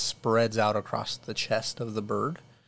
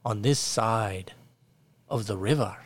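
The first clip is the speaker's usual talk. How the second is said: peasant villager. Acted. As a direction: welcome the lords like a fawning villager. GM voices peasant Abel.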